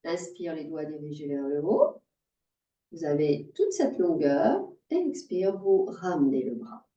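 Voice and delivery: low, unhurried breathing cues; calm yoga guidance. Real, not acted. Yoga teacher guiding an inhale and exhale, calm. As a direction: lead the breath gently, with long pauses. Guides breathing and arm movement.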